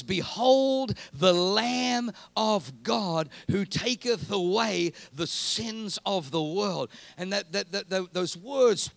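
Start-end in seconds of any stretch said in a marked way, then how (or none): 0.0-6.9 slow, drawn-out prophet's proclamation; prophetic proclamation. Acted. John the Baptist proclaiming to the crowd, slow and solemn. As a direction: announce it like John the Baptist pointing. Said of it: "and he says".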